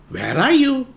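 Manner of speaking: high sing-song mock searching; mother pretending not to see the lump, high; playful search. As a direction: pretend you can't find him.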